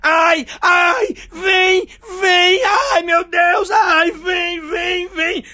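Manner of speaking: high, loud ecstatic cries; mock ecstatic moaning, loud and high; loud moaning woman. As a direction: cry out like a hysterical lover. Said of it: "ela fazia".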